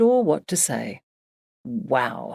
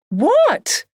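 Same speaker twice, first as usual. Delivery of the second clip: higher, louder cried out what; both friends crying out in suspense; eager cry; 5 dB louder than usual. A narrator's reading. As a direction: burst out, dying to know. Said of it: "Jake and Emily cried".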